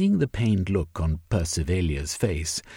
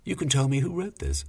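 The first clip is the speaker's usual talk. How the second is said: hidden triumph; 7 semitones higher, faster than usual. Acted. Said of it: "trying his best to keep the triumphalism from his voice".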